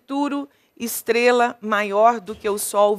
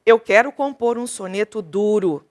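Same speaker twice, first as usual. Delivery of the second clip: measured poem recitation; recited, rhythmic verse reading. Shown as a demonstration. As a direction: read it as a sonnet line. Reads the sonnet aloud.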